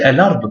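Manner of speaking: "Al-Ard" as one joined word, "e-lard"; wrongly linked. Shown as a demonstration. Teacher explaining the mistaken reading, "Al-Ard" linked. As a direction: glide from L into "ard". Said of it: "Ce serait".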